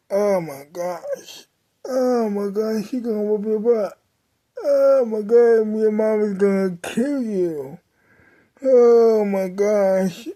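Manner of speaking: mock panic, voice cracking into a cry; a hammed-up tearful panic over the coming punishment; panicked wailing. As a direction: retell the freak-out like it's happening again, half sobbing. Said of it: "I'm freaking out right now".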